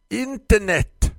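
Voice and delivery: high and loud, the word dragged out slowly; repeated hiss. Acted. Florist repeats the word slowly to the confused customer. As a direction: repeat it slowly as if to a dim child. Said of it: "och upprepade".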